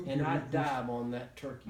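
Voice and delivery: laughing through the words; chuckling as you tell it; amused laughing retelling. Real, not acted. Laughing at the climax.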